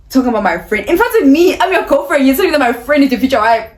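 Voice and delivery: loud, high outraged rant; indignant outburst. Retold or imitated. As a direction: blast it out in disbelief. Outraged retelling of boyfriend's words.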